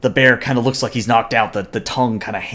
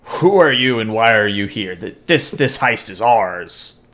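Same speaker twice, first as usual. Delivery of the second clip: lightly voiced challenging bear; a hint of a territorial bear; Orion bear. Orion bear confronts a rival bear about the heist, lightly voiced challenge. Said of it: "the Orion bear says".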